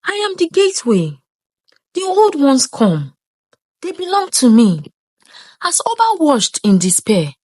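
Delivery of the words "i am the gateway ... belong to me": possessed voice. A narrator's reading. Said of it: "spoke in a voice that was not her own".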